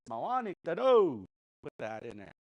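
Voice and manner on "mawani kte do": Mawani kte do with do pressed firmly at the end; emphatic do. Shown as a demonstration. Teacher shows students an emphatic Mawani kte do. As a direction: land hard on the final do. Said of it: "You really wanna use emphasis?".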